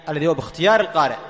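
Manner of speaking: lilting, fast sing-song phrasing. Shown as a demonstration. Teacher lilting a phrase for students, sing-song.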